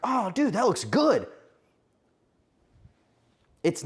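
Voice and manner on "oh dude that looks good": excited greeting. Retold or imitated. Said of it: "and you're like".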